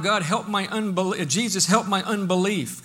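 usual speaking voice

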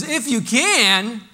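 high, loud and slow, astonished; incredulous. Retold or imitated. Preacher quoting Jesus to the congregation again, incredulous. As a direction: echo the doubt back in disbelief. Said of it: "with an incredulousness in his voice".

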